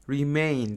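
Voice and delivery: Remain said re-MAIN, weight on MAIN; stress on second syllable. Shown as a demonstration. English teacher shows students the stress in Remain, stressing MAIN. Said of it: "the stress is on M".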